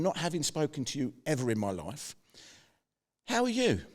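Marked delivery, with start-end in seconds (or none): 3.3-3.8 cheery greeting. Retold or imitated. Breezy greeting to unknown client.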